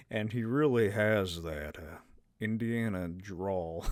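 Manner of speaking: low, slow drawl; Indiana Jones drawl. Shown as a demonstration. Vlogger attempting Harrison Ford's drawl, low and slow. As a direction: sink into a low, slow gravel-free drawl. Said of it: "That was terrible".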